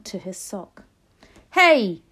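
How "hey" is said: loud, high startled shout. A narrator's reading. Cook feeling a mouse on his sock, shouting. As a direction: burst out with a very loud cry. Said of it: "the cook shouted".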